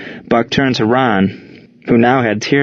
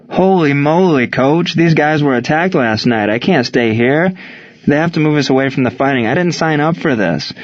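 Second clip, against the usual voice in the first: panicky protest; 4 semitones higher than usual. Acted. Panicking player pleads with coach.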